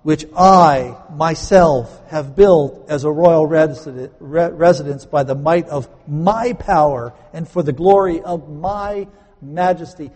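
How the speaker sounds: loud, slow, pompous royal boast; proud king. Acted. Preacher voicing the boastful king, loud and pompous. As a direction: swell up like a vain king proclaiming. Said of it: "King Nebuchadnezzar says".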